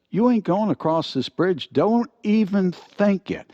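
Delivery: a high, loud troll barring the bridge; troll barking at Medium Bill to stay off his bridge, high and loud; menacing troll. Acted.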